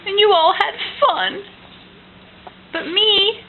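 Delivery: high, whiny bear voice; bear's complaint. Acted. Parent voicing the grumpy bear for toddler, whiny. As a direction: whine it like a wronged bear.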